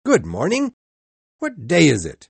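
put-on high, loud call to a boy below. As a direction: shout the greeting down the street. Calling from window to boy.

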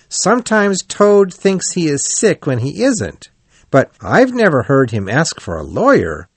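high-voiced anxious reasoning; worried Rat. A narrator's reading. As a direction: think it through in a lifted, concerned voice.

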